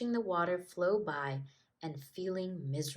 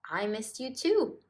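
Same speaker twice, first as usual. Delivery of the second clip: smiling; 5 semitones higher, 4 dB louder than usual. Acted. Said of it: "smiled Stripe".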